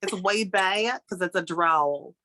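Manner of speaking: slow drawl pulled back in the throat; slow Southern drawl demo. Shown as a demonstration. Explaining the deep-South accent in a slow drawl. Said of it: "they talk more down here from the throat".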